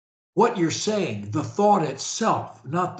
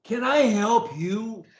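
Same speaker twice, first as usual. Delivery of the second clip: with energy; 2 semitones higher than usual. Shown as a demonstration. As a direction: sell it with energy and conviction. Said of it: "the way I do, with energy".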